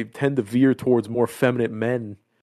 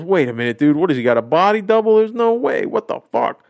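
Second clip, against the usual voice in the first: incredulous Brian; 5 semitones higher than usual. Retold or imitated. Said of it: "And so he goes".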